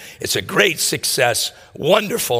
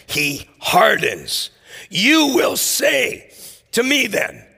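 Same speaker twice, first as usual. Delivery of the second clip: scripture reading; 3 semitones higher than usual. Acted. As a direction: read it out as holy text, measured. Reads scripture aloud.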